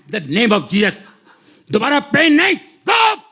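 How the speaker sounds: forceful rebuke of pain, rising high; commanding prayer shout. Retold or imitated. Pastor commanding pain to leave. (दर्द को डाँटते हुए ज़ोरदार आदेश)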